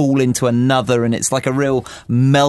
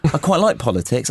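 lightly imitated Irish accent; touch of Irish in a retold quote. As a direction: quote an Irish guy with a hint of his accent. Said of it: "in his Irish accent".

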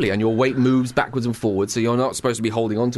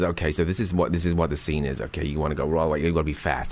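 lightly voiced director; 7 semitones lower, 4 dB quieter, faster than usual. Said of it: "he comes over and he says".

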